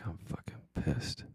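breathless whisper of buried fury; slow, hushed, seething admission; whispered inner rage. Retold or imitated. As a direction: hiss it quietly beneath the calm. Inner voice behind teacher facade.

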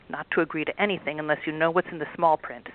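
a hint of a gruff boss troll lecturing; lightly voiced big troll. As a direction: scold the girls like a smug boss. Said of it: "said the biggest and ugliest troll".

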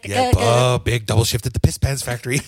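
high, fast little gremlin voice with a giggle. Retold or imitated. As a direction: squeak it out like a cackling gremlin. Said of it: "The little gremlin voice".

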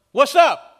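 high, loud, cheery "Blessed" as a hello; loud greeting. Pretend. Pastor acts a Greek greeting, loud and high. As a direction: call it out like greeting a friend. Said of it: "Imagine somebody saying".

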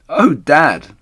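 high, loud cry to Dad; excited cry. A narrator's reading. Smallest fox to his dad on the discovery, excited cry. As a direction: cry out as a thrilled little fox. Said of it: "he cried".

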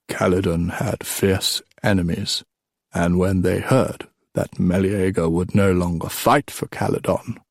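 a hint of an old king, measured telling; lightly voiced old storyteller king; old king storytelling. Old king telling the boys a legend, lightly voiced.

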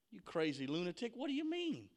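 incredulous jeer rising high at the end; mock him, pitch leaping on the question; scornful disbelief. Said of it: "they begin to laugh him to scorn".

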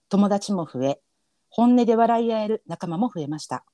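slow, measured reading of a listener's letter; earnest letter read with a faint narrator feel. Acted. Reads listener letter aloud.

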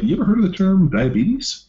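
retold loud high-pitched challenge to the kid; mock loud challenge. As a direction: hit the question loud and high, half-joking. Doctor confronting teen patient, retold.

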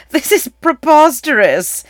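loud, high scoff with a laugh leading in; laughing disbelief. A narrator's reading. Advisor dismisses the prince's story before the king, laughing disbelief. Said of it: "one of the advisors laughed".

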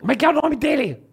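high, thin put-on voice; high-pitched mock voice; thin-voiced comedian. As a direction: imitate a comedian's squeaky little voice. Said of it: "tem uma voz assim".

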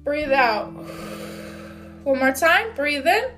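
measured cues with long pauses; guided breathing. Real, not acted. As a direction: lead listeners through each breath, in then out. Leads a breathing exercise.

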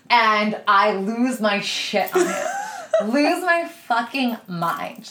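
slow words broken by real laughter; laughing through it. Real, not acted. Telling her podcast cohost about the meltdown, laughing. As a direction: laugh helplessly while telling it.

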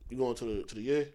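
mumbled slang. Retold or imitated. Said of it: "I'll be like".

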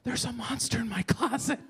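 put-on high-pitched little kid voice; daughters' child voice. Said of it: "if they're like".

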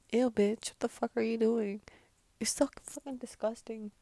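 loud, grossed-out snap; disgusted outburst. Retold or imitated. Vlogger acting disgust at people mouthing across rooms. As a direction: recoil at someone mouthing words.

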